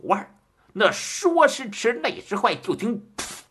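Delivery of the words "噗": short puffed "pu" of a blade going in; imitated stab sound. A narrator's reading. Storyteller imitates the blade piercing the belly, short puff. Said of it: "这一声".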